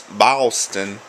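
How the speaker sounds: "Boston" said "Bahstin"; Boston accent. Shown as a demonstration. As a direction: say "Boston" with a broad open a. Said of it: "here comes another Boston word".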